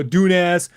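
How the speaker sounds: "Dunas" shortened, the middle "ay" sound dropped; mispronounced surname. Retold or imitated. Imitating people who get his surname wrong, mispronounced "Dunas". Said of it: "They go Dunas".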